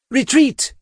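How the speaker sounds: sharp high alarmed yell; shouting. A narrator's reading. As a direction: scream the order out. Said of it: "Sinner shouted".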